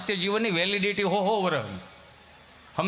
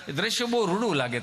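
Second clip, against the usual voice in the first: normal talking voice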